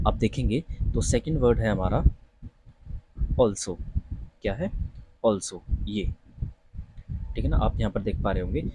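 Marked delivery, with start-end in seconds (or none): 3.4-3.8 "also" opening on a rounded AWL; rounded "aw" vowel in "also"; correct pronunciation. Shown as a demonstration. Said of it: "सही उच्चारण है वो है also". 5.3-5.6 "also" opening on a rounded AWL; rounded "aw" vowel in "also"; correct pronunciation. Shown as a demonstration. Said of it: "सही उच्चारण है वो है also".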